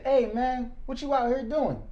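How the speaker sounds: lightly voiced older stranger, accusing; a hint of a scolding older man; imitating the older man. Retells older man confronting him.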